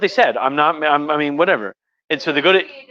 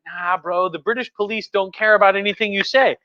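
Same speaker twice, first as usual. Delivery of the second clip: lightly voiced higher casual bro; laid-back crowd; 8 semitones higher than usual. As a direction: shrug it off like a relaxed Londoner. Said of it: "And everybody's like".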